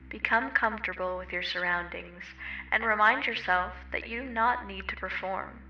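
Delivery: measured meditation voice, drawing out some phrases; guided meditation. Real, not acted. Meditation guide inviting listeners to move freely, unhurried guiding voice. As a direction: guide them gently through movement, with long pauses.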